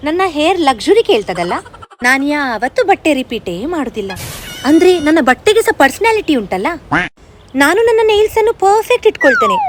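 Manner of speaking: lightly voiced fussy, self-adoring girl; touchy girl-gang diva showing off to friends; pampered diva. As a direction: play the over-sensitive princess, all airs. Sketch of the sensitive personality.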